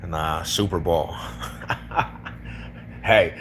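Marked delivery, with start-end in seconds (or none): 0.4-1.2 slow "Super Bowl" said carefully the Denver way; deliberate Denver "Super Bowl"; Denver pronunciation test. Shown as a demonstration. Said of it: "let's test it".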